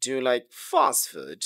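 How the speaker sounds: slow demo of a question on "fast food"; measured yes-no question intonation; rising tone question. Shown as a demonstration. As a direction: lean on "fast food" and lift it. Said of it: "এটা আপনার rising tone হবে".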